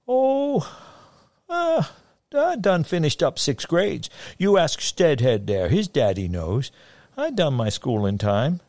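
high folksy hillman; sing-song voice. A narrator's reading. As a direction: boast in a high lilt. Fagin voiced by narrator.

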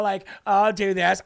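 slightly drawn-out mimicry; mocking affected voice. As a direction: stretch the words in light, affected mockery. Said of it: "Why do they all talk like this?".

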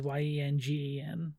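letter by letter; spelling it out. Shown as a demonstration. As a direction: spell each letter clearly. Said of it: "the audience needs you to spell it".

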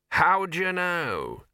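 suspicious. A narrator's reading. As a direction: draw it out with open suspicion. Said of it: "said the Arch-Chancellor suspiciously".

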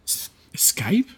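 incredulous whisper. Acted. NPC whispers back at the rescuers in disbelief. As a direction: breathe the word "escape?" in shock.

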